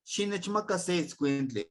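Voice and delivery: slow with a high stressed "shi" on "Shi nechmaka"; firm order, "shi" up front; issuing an order, clear and slow; commanding. Shown as a demonstration. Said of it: "Estoy dando una orden".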